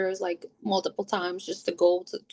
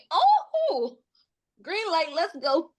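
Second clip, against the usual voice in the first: sarcastic; 8 semitones higher, much slower than usual. Retold or imitated. Sarcastic retort to nurse.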